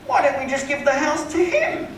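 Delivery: very high, drawn-out affected voice; Philip Harding, wealthy client. Retold or imitated. Homeowner explains choosing another agent, high and affected. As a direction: mimic a rich man airily explaining himself. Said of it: "He said".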